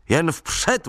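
rally them gaily through the storm; cheerful call. Retold or imitated. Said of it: "volal jsem vesele".

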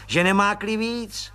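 high, eager voice of a fawning little clerk; fawning little policeman. Acted. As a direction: squeak up importantly like a nosy petty cop.

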